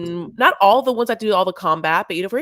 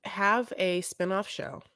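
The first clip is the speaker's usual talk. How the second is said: conspiratorial; 9 dB quieter than usual. Real, not acted. Conspiratorial lowered voice.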